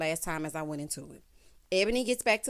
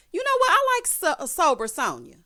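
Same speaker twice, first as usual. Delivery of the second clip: mock excitement; 9 semitones higher, 6 dB louder than usual. Real, not acted. Mock praise of Sonya.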